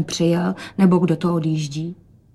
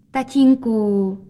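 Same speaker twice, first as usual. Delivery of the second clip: long slow louder call; drawn-out call; 3 semitones higher, 5 dB louder, much slower than usual. Acted. Rozetka calls father to look at her dress. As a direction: stretch the word to show off.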